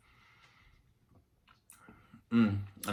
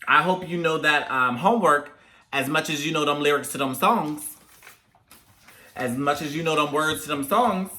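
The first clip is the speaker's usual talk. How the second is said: scolding mom; 4 semitones higher than usual. Retold or imitated. Mimics mother's sarcastic homework scolding.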